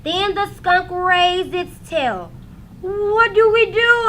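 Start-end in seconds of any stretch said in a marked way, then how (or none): 2.8-4.1 louder, higher panicked plea; wail. A narrator's reading. Trapped boy begging his brother for help, panicked wail. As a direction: cry out in mock panic. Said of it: "Arthur wailed".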